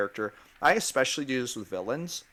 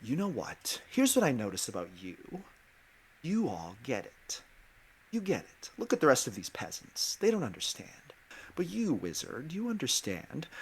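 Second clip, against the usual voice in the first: a lightly voiced scheming villain, friendly with an edge; quiet, passive-aggressive villain tempting a player; 3 dB quieter than usual. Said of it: "I'll say something like".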